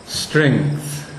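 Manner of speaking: strength said slow, the E carried long through the consonants; lengthened vowel. Shown as a demonstration. Teacher demonstrating a lengthened syllable, slowly. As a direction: draw out "Strength", hanging on the short E before the G T H. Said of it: "short by its vowel but lengthened by its consonants".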